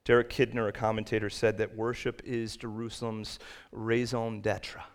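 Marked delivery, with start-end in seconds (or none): 3.7-4.8 raison d'etre in a clumsy French accent; a light attempt at French for raison d'etre; self-mocked French accent. Real, not acted. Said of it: "I have a terrible French accent".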